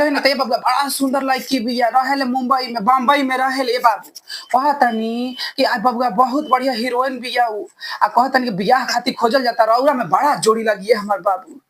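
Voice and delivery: high female voice, mother chatting; man doing a woman's voice. Retold or imitated. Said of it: "आप बहुत अच्छा बोल लेते हैं लड़की की आवाज।".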